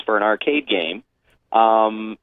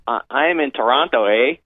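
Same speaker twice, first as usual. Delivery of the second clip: mock Canadian accent. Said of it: "that's perfect accent".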